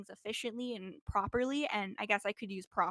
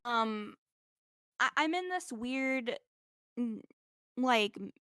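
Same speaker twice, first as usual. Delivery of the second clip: groggy hungover speech, stumbling for words. Real, not acted. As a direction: talk like you're hungover and foggy. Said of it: "I can't talk right now 'cause I'm hungover".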